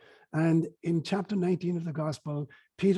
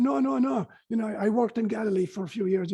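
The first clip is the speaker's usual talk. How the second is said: high, loud mock protest; hammed-up retold denial; 5 semitones higher, 4 dB louder than usual. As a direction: scramble for an excuse as the caught man. Acting Peter's flustered denial.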